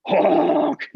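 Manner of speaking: imitated sax honk. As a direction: mimic a beginner's squawk. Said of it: "I sound like a beginner".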